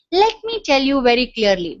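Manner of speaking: said with an energetic smile; easy, smiling clarity; smiley. Shown as a demonstration. Teacher showing trainees a good-energy opening, smiley. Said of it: "very smiley. It means a very good of energy".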